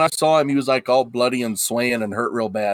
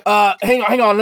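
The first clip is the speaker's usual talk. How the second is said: higher, stammering apology; nervous Haggis; 7 semitones higher than usual. Acted. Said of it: "Haggis looks a little nervous".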